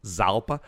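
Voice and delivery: ZALPA begun with a buzzed Z; Z pronunciation guess. Shown as a demonstration. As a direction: try "Zalpa" as a questioning guess. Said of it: "Yeah, I don't know".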